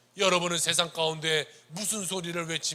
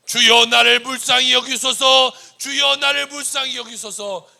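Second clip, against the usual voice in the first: loud, slow, pleading cry; crying prayer; 7 semitones higher, 16 dB louder than usual. Acted. Preacher crying out a prayer to the Lord, loud plea.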